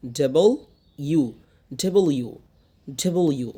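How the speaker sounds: W in two clear words, "double you". Shown as a demonstration. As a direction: keep "double" and "you" distinct. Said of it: "উচ্চারণটা এরকম না".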